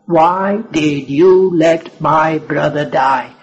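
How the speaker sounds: slow, bitter reproach; bitter accusation. Acted. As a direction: accuse him, slowly and bitterly. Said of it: "It was an accusation revealing the bitterness".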